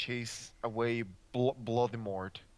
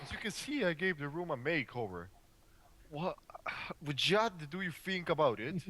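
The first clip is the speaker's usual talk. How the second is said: higher, upbeat showman; cheery Dumbledore; 5 semitones higher than usual. Acted. Dumbledore boasting of his black makeover, pitched up. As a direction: proudly show off the makeover. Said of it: "he said happily".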